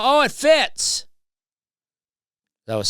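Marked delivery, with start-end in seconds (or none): 0.0-1.1 very high, loud, drawn-out Oh; loud pointed remark. Retold or imitated. To the rude lady, a loud high drawn-out taunt. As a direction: stretch the Oh way up for her to hear. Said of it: "I said it loud enough to where she could hear".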